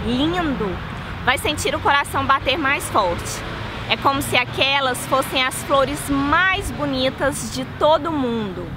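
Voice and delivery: calm, measured poetry recital; poem reading. Shown as a demonstration. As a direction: read the poem gently, savoring each line. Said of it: "eu quis vir aqui pra ler esse poema". (leitura de poema)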